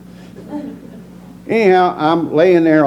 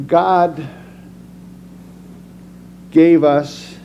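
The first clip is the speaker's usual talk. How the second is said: preaching; 2 semitones higher than usual. Acted. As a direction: drive the point home from the pulpit. Preaches about fear to audience.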